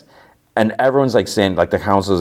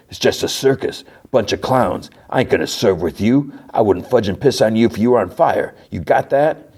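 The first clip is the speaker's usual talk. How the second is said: raised, higher-pitched rant; mock angry Frank; 3 semitones higher than usual. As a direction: spit the insults out. Frank insults task force, furious.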